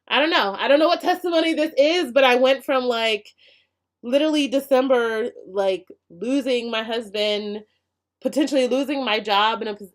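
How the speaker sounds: holding back tears as it all spills out; getting emotional. Real, not acted. Telling her viewers about her hard year, choked up with real emotion. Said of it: "gonna get emotional about it".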